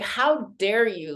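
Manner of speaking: retold outrage at the stars; a touch of mock fury; cursing out the stars. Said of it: "she's crying and cursing out the stars".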